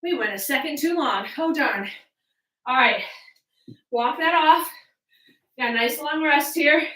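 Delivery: winded after a cardio round; out of breath. Real, not acted. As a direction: talk while still catching your breath. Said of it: "catch my breath".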